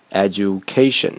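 "education" with a stop after "edu", then firm "ca"; pause before stress. Shown as a demonstration. Teacher giving a practice word, "education" split by a pause. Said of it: "可以多拿几个单词练练".

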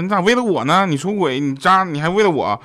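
high, mock-incredulous questioning; baffled disbelief. Wife answers cheating husband's excuse, baffled and incredulous. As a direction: imitate a wife who can't believe her ears. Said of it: "这个女生就蒙圈了".

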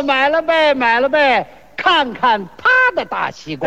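lightly sung-out market call; mock vendor's cry. Seller answering by touting the other man's melons, mock vendor's cry. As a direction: hawk it like a street seller. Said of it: "还得吆喝，互相吹".

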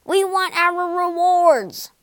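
high, loud roaring demand; roaring lion. Acted. Lion demands rewards from the wizard, loud roar. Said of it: "roared the lion".

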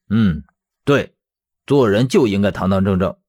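sincere, firm agreement; earnest. Acted. Man agreeing with his late father's principle, earnest. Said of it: "认真的道".

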